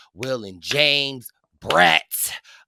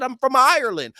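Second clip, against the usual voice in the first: high, louder mock Irish brogue; imitated Irish accent; 9 semitones higher, 7 dB louder, faster than usual. Irishman answers where he's from, imitated Irish accent. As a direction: play a proud Irishman, Irish accent put on. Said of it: "He said".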